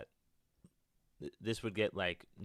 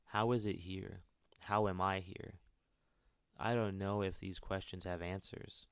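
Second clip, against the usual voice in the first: steady storytelling read; story narration. Acted. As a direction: narrate the character's thoughts evenly. Continues game monologue narration.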